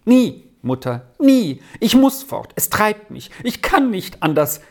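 high, vehement refusal; wild cry. A narrator's reading. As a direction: cry out as if driven away. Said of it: "rief der Sami wild".

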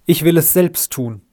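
a frantic father; beside himself. Acted. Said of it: "rief er außer sich".

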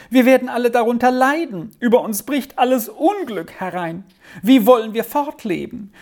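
high-pitched, agitated wailing; storm of lamenting. A narrator's reading. Aunt laments her niece's injured arm, wailing. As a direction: pile woe on woe in a high voice. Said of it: "nun kam ein Jammersturm wie noch nie".

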